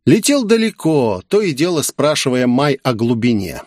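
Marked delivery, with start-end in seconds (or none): none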